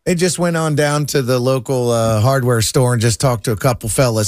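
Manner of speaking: folksy Southern storytelling twang. Pretend. Keeps joking in Southern drawl.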